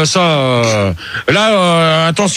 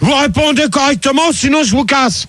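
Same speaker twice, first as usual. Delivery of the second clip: raised-pitch warning to unruly callers; stern threat; 4 semitones higher than usual. Real, not acted. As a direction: lay down the law, voice pitched up.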